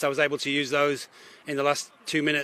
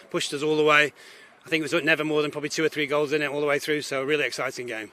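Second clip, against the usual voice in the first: losing her voice, a bit hoarse; rough, tired voice after shouting. Real, not acted. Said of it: "Losing my voice, you can tell".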